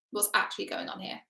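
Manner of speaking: unvoiced whisper of the question. Shown as a demonstration. Coach whispering the real question Thor never asks, whispered. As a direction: breathe it as a private wonder. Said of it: "repeated as whisper".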